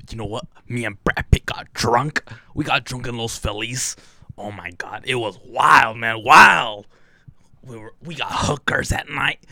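mock boastful party tale, punched key words; imitating an acquaintance. Retelling a guy's Brad Pitt story to friends, imitated boastfully. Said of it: "That's how he sounded".

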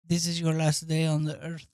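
low and soft, a menacing killer's line; menacing threat. Retold or imitated. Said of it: "slash them".

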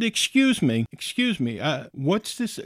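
retold startled objection; taken aback. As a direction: pull them up short, affronted. Retold shock at funeral question.

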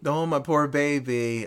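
slow, flat echo of the mom; mock mom. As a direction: drag out the limp line. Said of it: "the mom does go".

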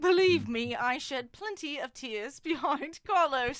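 Black American drawl, drawn out; measured Black American accent. Acted. Condemned Reginald giving last statement, Black American accent. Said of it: "His name's Reginald".

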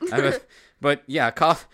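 high laugh breaking into words. Real, not acted. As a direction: laugh through it. Laughing at own growl.

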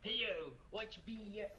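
lightly voiced shopkeeper; a hint of a sly merchant. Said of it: "let me get my merchant voice on".

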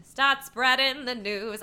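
a hint of a crooner; New York voice. Shown as a demonstration. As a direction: lightly croon it, slow. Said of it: "I have to use that voice".

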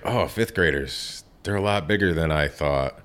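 surprised. Retold or imitated. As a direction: recount a small moment of surprise. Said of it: "I was the one who was surprised".

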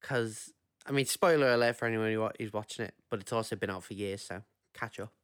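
ordinary talk

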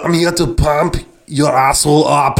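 mock Austrian accent; lightly voiced Austrian bodybuilder; Arnold Schwarzenegger. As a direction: put on a comic Austrian strongman accent. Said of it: "Do your Arnold Schwarzenegger".

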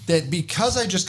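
high, slow, stunned disbelief; outraged disbelief at being pulled over; incredulous. Real, not acted. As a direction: stretch it out, can't believe it. Outraged at second stop.

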